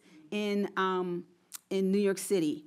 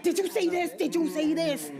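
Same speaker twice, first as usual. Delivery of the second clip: excited disbelief; 8 semitones higher than usual. Real, not acted. Excited about archive find.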